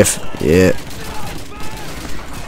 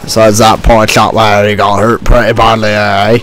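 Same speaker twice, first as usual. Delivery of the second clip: mock English accent. Gamer jokes about a wounded soldier in a mock English accent. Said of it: "I'm never gonna do an English accent again".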